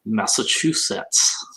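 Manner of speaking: "Massachusetts" slowed, ending in a clear "sets"; careful pronunciation. Shown as a demonstration. Host showing how she says the state, careful pronunciation. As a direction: draw out "Massachusetts" and sound the final T-S. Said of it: "Is, is it sis or sets?".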